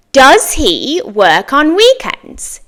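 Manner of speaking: slow, clear question to copy; slow model for repeating. Shown as a demonstration. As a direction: say "Do you speak English?" slowly for students to repeat. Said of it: "My turn".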